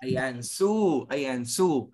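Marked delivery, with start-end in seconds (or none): 0.4-1.1 "sous" as a drawn-out "soo"; pronunciation demo. Shown as a demonstration. Teacher confirms a student's attempt, "sous" pronounced "soo". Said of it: "pronounce nyo naman". 1.5-1.9 "sous" as a drawn-out "soo"; pronunciation demo. Shown as a demonstration. Teacher confirms a student's attempt, "sous" pronounced "soo". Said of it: "pronounce nyo naman".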